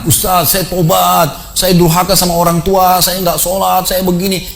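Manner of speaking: retold tearful repentance, high and drawn out; imitated trembling confession. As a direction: imitate a shaken penitent, stretching each admission slowly. (menirukan pengakuan tobat sambil gemetaran)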